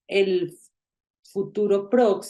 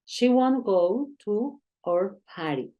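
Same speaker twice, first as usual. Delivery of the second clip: slow model sentence; 2 semitones higher than usual. Shown as a demonstration. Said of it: "puedes decir will not o puedes decir won't".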